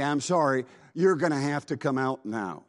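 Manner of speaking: a touch apologetic, politely asking it to leave; sorry to have to say it, gently firm; almost apologetic. Retold or imitated. Preacher to the sweet grandmother demon, mildly apologetic. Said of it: "almost apologetically".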